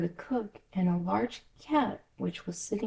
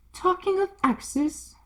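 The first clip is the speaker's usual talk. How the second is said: rude Duchess; 12 semitones higher, slower than usual. Acted. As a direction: sneer it down at her. Duchess, high and slow.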